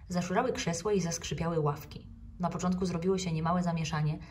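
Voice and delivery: plain reading voice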